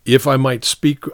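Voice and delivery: lightly voiced sergeant, respectful but insistent; frank sergeant. Sergeant telling the captain the charge won't stick, mildly insistent. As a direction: argue firmly with a superior.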